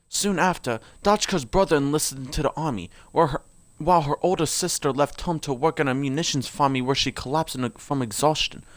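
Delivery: put-on lore read aloud in an amateur British accent.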